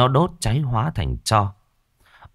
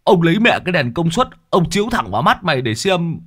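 menacing voice; 10 semitones higher, 5 dB louder than usual. Acted. Character threatening with a lamp.

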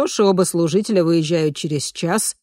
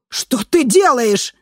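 higher, louder slow yell; 8 semitones higher, 7 dB louder, slower than usual. A narrator's reading. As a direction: shout at her in alarm. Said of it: "завопила Дорсет". (вопль, выше и громче)

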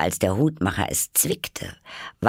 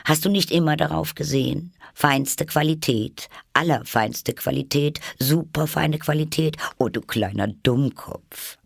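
high put-on voice, lecturing; scornful Hatter; 9 semitones higher than usual. A narrator's reading. Hatter explains syrup labels to Alice, high and scornful. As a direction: reel off grades in a high, scornful voice.

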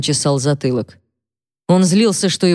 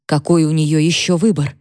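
normal talking voice

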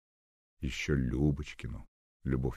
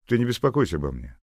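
quick reply; 8 semitones higher, 7 dB louder, faster than usual. Acted. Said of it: "быстро ответил Серёжа".

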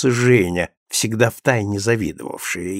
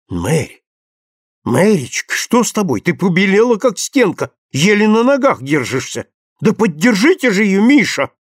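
rising, higher, urgent worry; alarmed exclamation; 8 semitones higher than usual. A narrator's reading. Friend suddenly cries out seeing Mary turn pale, higher. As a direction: call for help as she sways. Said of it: "воскликнула вдруг Аня".

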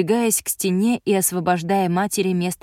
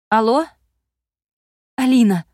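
whispered shout; 5 semitones higher, 7 dB louder than usual. A narrator's reading. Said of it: "шёпотом закричала Инна".

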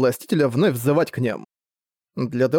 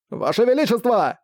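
urgent shout; 8 semitones higher than usual. Acted. Commanders shout at king.

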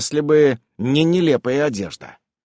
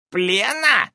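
horrified; 9 semitones higher than usual. A narrator's reading. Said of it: "ужаснулся Устриус".

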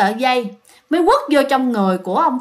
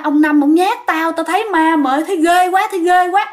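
hốt hoảng kể lại; 5 semitones higher than usual. Retold or imitated. Cậu Phú kể lại thấy ma.

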